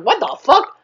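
high, incredulous outburst; mock disbelief. Retelling Tiana hearing the frog's offer, mock disbelief. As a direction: act out baffled shock. Tiana shocked frog talks.

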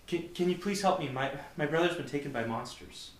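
high, pleading frightened voice; scared young woman. Acted. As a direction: beg for help, stammering. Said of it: "the scared, shaky voice".

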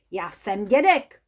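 mildly indignant dwarf. Acted. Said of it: "rozčilil se trpaslík".

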